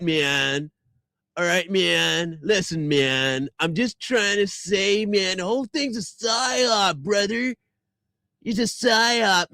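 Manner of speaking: slow, drawling dude voice full of man and brother; mock stoner bro voice. Mocking the critic who calls it a psyop, in a slow stoner drawl. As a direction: hams up the commenter as a lazy stoner.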